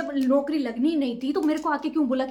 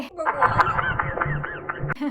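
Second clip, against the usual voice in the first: drawn-out exclamation; much slower than usual. Acted. Mother exclaims in mock despair.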